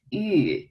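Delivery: YU drawn out with rounded lips; rounded vowel demo. Shown as a demonstration. Teacher showing learners the sound, rounded YU. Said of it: "you need to round your lip".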